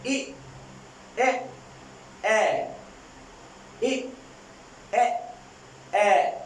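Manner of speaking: isolated short vowels, each held alone; vowel demo. Shown as a demonstration. Teacher models short vowels for the class, slowly. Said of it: "मैं again इन three sound को repeat करता हूं".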